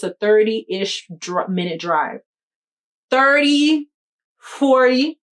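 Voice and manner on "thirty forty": alarmed. Real, not acted. Anxiously estimating drive time.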